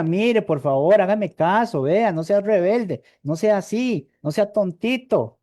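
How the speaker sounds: lightly mocking plea to a demon; mock coaxing plea. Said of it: "Jesús no decía".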